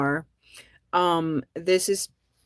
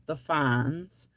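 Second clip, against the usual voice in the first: a secret little aside; whispered aside; 3 dB quieter than usual. Acted. Naming the show's mascot, whispered. Aside about Henry Winkler.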